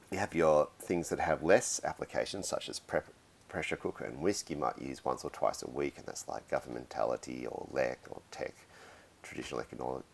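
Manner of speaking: talking through a sore throat; hoarse voice from a cold. Real, not acted. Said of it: "very hard to talk with a sore throat".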